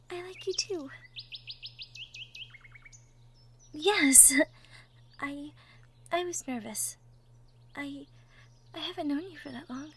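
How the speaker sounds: soft, hesitant and tender; bashful halting whisper; shy confession. Acted. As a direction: admit the crush quietly.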